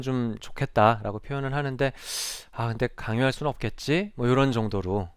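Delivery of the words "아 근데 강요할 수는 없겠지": light, unforced. Shown as a demonstration. Counselor voicing a wish to a self-harming student, lightly. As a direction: float it lightly, without pressing. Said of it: "아주 가볍게 좀 하시는 게".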